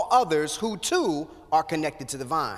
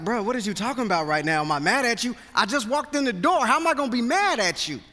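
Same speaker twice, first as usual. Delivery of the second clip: mock exasperation building up; incredulous reply; 2 semitones higher, faster than usual. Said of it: "And I'd be like".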